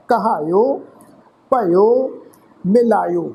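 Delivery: ਕਹਾਇਓ, ਭਇਓ, ਮਿਲਾਇਓ word by word, each ending in a clear yo; demonstrated yo endings. Shown as a demonstration. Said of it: "ਇਹਨਾਂ ਸ਼ਬਦਾਂ ਦਾ ਇਸ ਢੰਗ ਨਾਲ".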